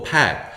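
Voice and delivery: '팍' said as pack with a stretched-open mouth; wide-open æ. Shown as a demonstration. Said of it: "입을 쫙 벌리고". ('팍'을 pack의 넓은 애 소리로)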